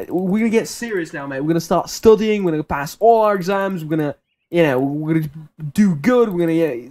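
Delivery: cheery, rallying motivational speech; upbeat pep talk. Retold or imitated. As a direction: pump up a friend with optimism. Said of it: "This, this really upbeat, optimistic spiel".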